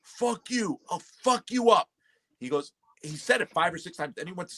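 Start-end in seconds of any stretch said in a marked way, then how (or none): 0.0-1.9 high-pitched mock threat; imitated defiant guy. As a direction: act out his cocky defiance, pitched up. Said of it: "the guy goes".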